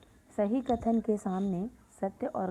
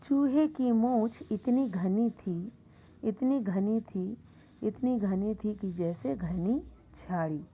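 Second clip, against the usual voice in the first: lively tall-tale reading; 4 dB louder than usual. Acted. Teacher to class, reading a fun exaggeration aloud. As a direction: build each इतनी as if it grows bigger.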